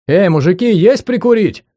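loud friendly call after them. Acted. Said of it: "закричал им вслед".

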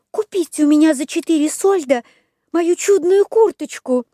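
put-on high eager puppet boy; quick bargaining wooden boy; Buratino voice. A narrator's reading. Buratino offers. (голос Буратино)

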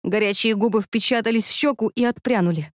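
usual speaking voice

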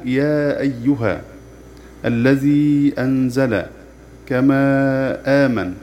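the long vowels of يا أيها, الذي أنزل, كما آمن held very long; slow tajweed recitation. Shown as a demonstration. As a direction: recite the examples slowly, holding each madd. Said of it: "أمثلته". (تلاوة بطيئة مع مد الحروف)

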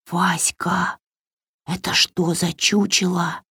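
hushed, breathless whisper. A narrator's reading. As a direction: whisper so nobody hears. Варя шепчет из кустов. (шёпотом)

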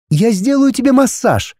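put-on high, indignant young woman; girl's voice. A narrator's reading. Heroine questioning the dragon, high and puzzled.

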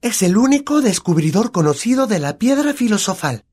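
high, grand announcement; hammy stage actor. Acted. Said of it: "susurró con tono teatral". (tono teatral exagerado)

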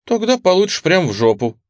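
warning. A narrator's reading. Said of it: "предупредила Рил".

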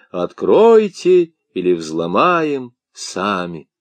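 shouted, slow demand at the door. Acted. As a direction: bang and demand entry. Pounding doors, demanding entry.

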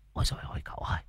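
breathy secret whisper, barely audible; whispering in his ear. A narrator's reading. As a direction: lean in and whisper the alarm. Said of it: "Muôn Phọt ghé tai cậu".

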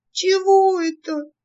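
высокий, медленный жалобный вопрос; спроси жалобно, потерянно. A narrator's reading. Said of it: "жалобно спросила я". (высоко и медленно жалуется)

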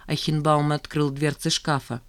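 ordinary delivery, nothing marked

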